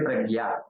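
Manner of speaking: pragya with a hard g in place of jna; common mispronunciation. Shown as a demonstration. Teacher quotes a common misreading of prajna, mispronounced. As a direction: say "pragya", with g-y for the cluster. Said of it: "they don't say prajna".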